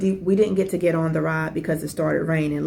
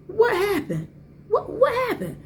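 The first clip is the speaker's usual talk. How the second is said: high, alarmed, repeated asking; worried son demanding to know; son's alarmed question. Retold or imitated. Son kneeling by gasping mom, high alarmed questions.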